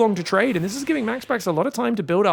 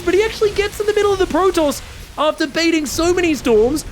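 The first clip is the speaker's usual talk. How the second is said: rising, louder excited play-by-play; higher and louder with building hype; hyped casting; 7 semitones higher, 4 dB louder than usual. Real, not acted. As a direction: sell the big moment to the crowd. Caster hyped by a clever bait.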